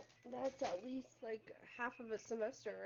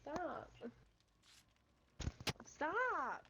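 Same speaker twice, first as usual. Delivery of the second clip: being tickled; 4 semitones higher than usual. Real, not acted. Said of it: "Stop tickling me".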